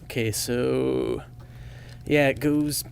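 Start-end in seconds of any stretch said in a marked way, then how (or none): 2.1-2.9 slow, annoyed whisper to himself; whispered to self. Real, not acted. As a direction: whisper it under your breath. Muttering alone while loading tape.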